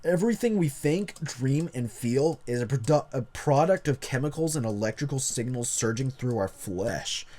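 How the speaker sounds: lightly voiced jock reading aloud; a hint of jock in the narration. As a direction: put on a touch of jock swagger. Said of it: "read this in the jock voice".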